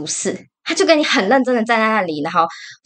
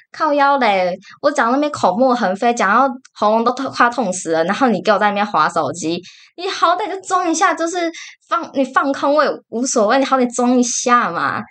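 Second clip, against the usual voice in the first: exasperated outburst; 4 semitones higher than usual. Retold or imitated. Annoyed at phone-scrolling boyfriend.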